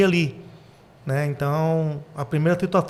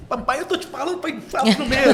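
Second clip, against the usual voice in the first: much higher mock-exasperated son's voice; imitated protest; 9 semitones higher than usual. Father quoting his son's complaint, mock exasperation. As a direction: imitate a protesting son, pitched way up, laugh creeping in.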